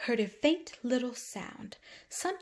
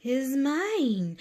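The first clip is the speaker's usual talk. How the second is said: wasp grumbling; 5 semitones higher, 4 dB louder than usual. Acted. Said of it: "the wasp grumbled".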